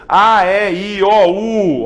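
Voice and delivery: A E I O U said loud and open, one by one; vowels called out. Shown as a demonstration. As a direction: belt out each vowel clearly for the class. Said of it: "dependendo aí da maneira como você pronuncia".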